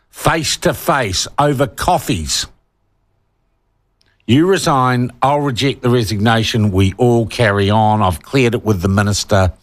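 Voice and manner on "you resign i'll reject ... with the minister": mock backroom deal. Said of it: "would have been negotiated behind closed doors".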